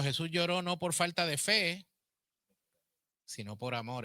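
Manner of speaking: loud and high on "Jesús lloró no por falta de fe", dropping back on "sino por amor"; emphatic preaching. Acted. Teacher stressing the point to her class, loud and high. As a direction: proclaim it to the class. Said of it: "No, no es falta de fe".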